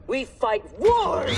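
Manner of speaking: slow, high and loud; fierce declaration. Acted. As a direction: draw it out into a battle cry. Instructor rebukes talk of rules.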